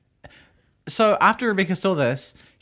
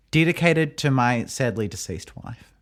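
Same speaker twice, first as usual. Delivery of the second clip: slow, slightly lowered announcer voice; mock solemn dedication; 4 semitones lower, slower than usual. Podcaster dedicating a silly segment, mock solemn. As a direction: play at a grave dedication, slowly.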